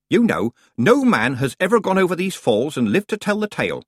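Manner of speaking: put-on a chatty old witch teasing her friend; lively Nanny Ogg.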